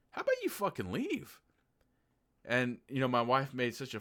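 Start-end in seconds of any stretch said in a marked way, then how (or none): 0.1-1.4 hammed-up protective mom; mock angry mom. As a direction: leave shot up high. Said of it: "most moms would actually be like".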